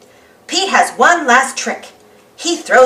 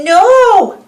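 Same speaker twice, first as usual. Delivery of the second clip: high loud duck squawk; Donald Duck; 8 semitones higher, 6 dB louder than usual. Acted. Donald warning Goofy, loud squawk. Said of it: "says Donald".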